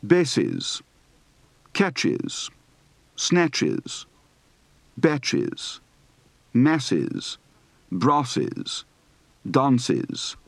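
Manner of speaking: "catches" and "masses" ending in a short -iz; crisp -iz on "Bases", "snatches", "batches"; "dances" as DAHN-siz; British E S ending. Shown as a demonstration. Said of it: "Practice for the E S ending".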